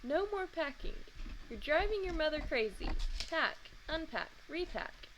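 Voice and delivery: child mimicking a nagging mother, mock-stern; grown-up voice. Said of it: "in my most grown-up voice".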